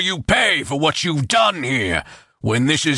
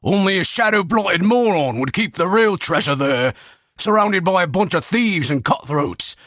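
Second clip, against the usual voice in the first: much higher, urgent desperate voice; panicked pleading; 6 semitones higher than usual. A narrator's reading. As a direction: sell the hidden treasure to save your life. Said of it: "words brimming with panic".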